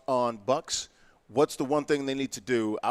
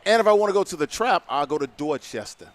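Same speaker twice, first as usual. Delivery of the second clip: Boston accent. Shown as a demonstration. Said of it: "now you're showing off".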